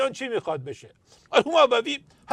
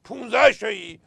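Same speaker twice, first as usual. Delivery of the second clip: higher bargaining voice; 9 semitones higher than usual. Acted. Governor haggling in joke.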